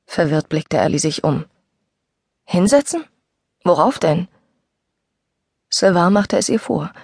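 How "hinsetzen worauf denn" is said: puzzled. Acted. Ellie puzzled by odd request.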